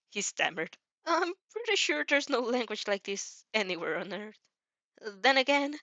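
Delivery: put-on nervous young hero puzzling it out; Izuku voice. Izuku stammering, worried.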